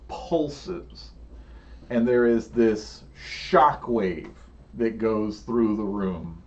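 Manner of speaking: dramatic scene setting with long pauses; measured, suspenseful storytelling; game master narration. Acted. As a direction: draw out the big moment, leaning on the vivid words.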